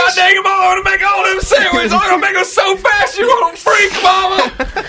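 high, loud, hammed-up Southern kid; Jimmy John, country boy. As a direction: holler back at mama in a put-on country accent. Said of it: "why Jimmy John sounds like a character from".

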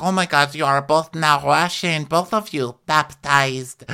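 put-on high Russian-accented exclamation; mock Russian accent. Russian castmate declaring two friends now Russian, high mock Russian accent.

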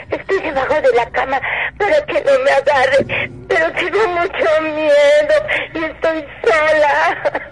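trembling, tearful whisper of fear; hiding under the bed, terrified; scared crying. Real, not acted. Llamada de auxilio aterrada. (llanto asustado)

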